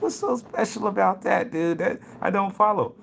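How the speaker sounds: buddy not following the story; puzzled buddy. Retold or imitated. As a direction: play it confused. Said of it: "My dude's like".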